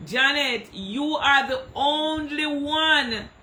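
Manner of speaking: slow, high gush broken by a laugh; laughing shout-out to Janet; laughing praise. Real, not acted. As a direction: drag it out while laughing fondly. Gushing, laughing praise to viewer.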